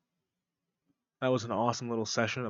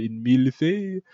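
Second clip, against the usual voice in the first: louder, showy French accent; mock French; 2 semitones higher, 6 dB louder than usual. Shown as a demonstration. Showing how he speaks French, mock French. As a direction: put on French for the dessert's name. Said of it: "I talk like this".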